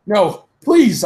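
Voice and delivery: high, loud pleading; begging. A narrator's reading. Heroine begs Voldemort with a gun in hand. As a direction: plead for mercy. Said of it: "I begged".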